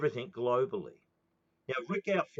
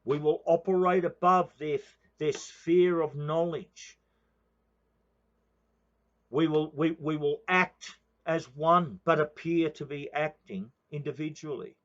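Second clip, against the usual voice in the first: quoting conspirators; 2 semitones higher, 4 dB louder than usual. Retold or imitated. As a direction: intone it like a secret plotter's creed. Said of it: "go and read the protocols of the Elders of Zion".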